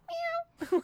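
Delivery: very high toy kitten meow; squeaky pre-recorded toy meow; Corporal Kittens meow. Pretend. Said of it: "with Corporal Kitten voice".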